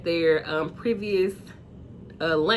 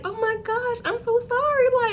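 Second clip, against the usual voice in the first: higher, imitating a teary-eyed friend; mock teary sympathy. A friend hears about a divorce, mock teary and high. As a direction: play her welling up with sympathy. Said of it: "she kinda got a little teary-eyed".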